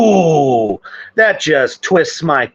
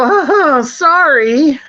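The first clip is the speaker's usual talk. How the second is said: mock careless apology; 9 semitones higher, much slower than usual. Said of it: "You're gonna laugh and go".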